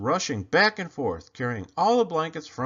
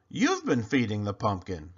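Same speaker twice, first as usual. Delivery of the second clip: lower, flat stunned echo; dawning realization; 3 semitones lower than usual. Acted. Desmond echoes Clayton in a lower stunned voice.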